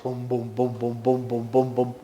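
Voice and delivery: low, steady bum bum like a beating drum; drum imitation. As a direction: thump out the drumbeat with the voice. Drums to drown the screams.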